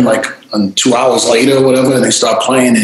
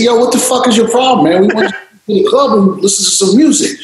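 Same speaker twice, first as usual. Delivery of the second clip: retold anger; 9 semitones higher than usual. Retold argument with bouncer.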